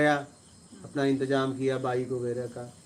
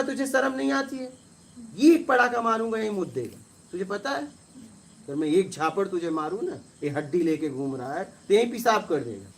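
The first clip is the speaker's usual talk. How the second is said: angry scolding; 4 semitones higher than usual. Retold or imitated. Scolding the local man.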